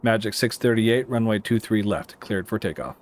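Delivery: takeoff clearance with each part spaced out. Real, not acted. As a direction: give the clearance unhurried, word by word. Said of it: "I said it too fast".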